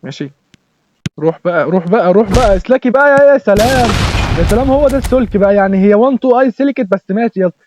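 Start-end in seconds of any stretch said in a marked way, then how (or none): 1.2-7.6 excited cheering. Real, not acted. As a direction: push him forward, then mock the easy goal. Cheering player toward goal.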